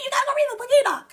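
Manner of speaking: hurried whisper, like sharing a secret; fast whisper. Real, not acted. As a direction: whisper the tip quickly. Urging viewers to read Enoch.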